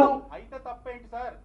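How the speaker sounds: loud, slow pushback question; loud challenge. Real, not acted. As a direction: press him hard on it, loudly. Reporter pressing politician in argument.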